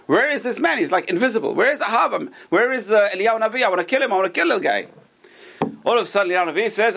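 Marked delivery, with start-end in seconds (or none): 0.1-4.9 furious king. Retold or imitated. King Ahab hunting the prophet.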